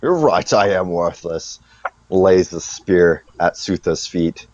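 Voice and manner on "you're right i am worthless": lightly voiced defeated orc, pitch jumping up then dropping; Garrosh. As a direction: act a hint of an orc admitting defeat. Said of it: "Garrosh goes".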